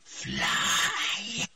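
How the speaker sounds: high, breathy cry; urgent command. A narrator's reading. The voice sends Triss away, urgent and high. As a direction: send her off urgently.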